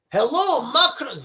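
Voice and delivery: botched impression of a politician greeting a counterpart; Keir Starmer. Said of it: "I don't even know what Keir Starmer's accent is".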